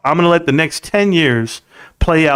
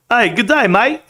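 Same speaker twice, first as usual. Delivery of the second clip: higher-pitched put-on Aussie accent; mock Australian accent; 7 semitones higher than usual. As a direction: do a playful, hammed-up Australian. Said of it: "I do Australian accents".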